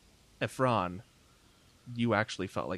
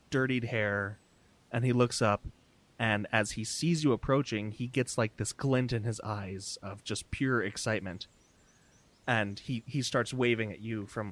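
game master narration. Acted. Game master describing a haggard waving stranger, measured narration. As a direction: lay out the picture piece by piece.

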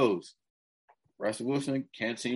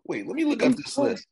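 mock double take; 13 semitones higher, 4 dB louder than usual. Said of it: "I was like".

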